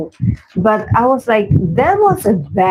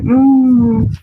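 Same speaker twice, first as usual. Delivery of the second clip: long, higher "mmm" of disapproval; disapproving hum; 4 semitones higher than usual. Retold or imitated. Viewer reacting to the rude contestant, long disapproving hum. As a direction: hold a drawn-out, judging hum.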